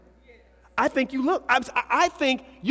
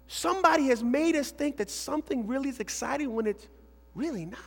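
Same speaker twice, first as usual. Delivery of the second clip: usual speaking voice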